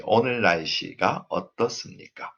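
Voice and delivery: "어떻습니까" lifts at the end; rising question intonation. Shown as a demonstration. Teacher models Korean W H question, rising on "어떻습니까". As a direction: raise the final syllable of "어떻습니까". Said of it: "this intonation goes up".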